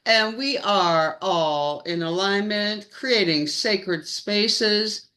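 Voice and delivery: slow, stretched show-host announcing; announcer voice. Pretend. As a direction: keep the grand announcer read going. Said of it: "my friend is sounding like an announcer voice".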